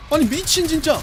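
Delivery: frustrated outburst. Real, not acted. Frustrated outburst then laugh.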